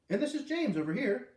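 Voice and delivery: put-on high sing-song for a little boy; coaxing teacher voice. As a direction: gently urge a shy child to say hi. Teacher introduces another boy.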